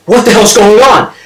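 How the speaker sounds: high-pitched mock freak-out. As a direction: blurt it as a panicked kid. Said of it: "he's freaking out".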